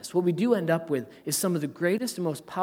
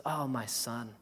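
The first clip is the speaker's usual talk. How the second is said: tender father. Retold or imitated. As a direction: plead gently with a hurt son. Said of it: "he says".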